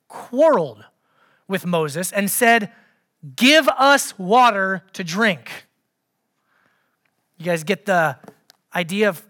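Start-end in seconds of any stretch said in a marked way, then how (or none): 3.4-5.7 loud, slow, accusing demand; angry demand. Acted. Thirsty Israelites quarreling with Moses, angry demand. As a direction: demand it with a pointed finger. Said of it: "an angry tone, bit of a finger pointing".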